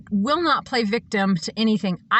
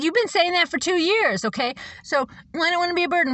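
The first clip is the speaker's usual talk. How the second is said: whiny high mimicry; 7 semitones higher than usual. Mimicking Mary's whining excuses.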